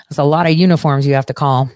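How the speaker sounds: usual speaking voice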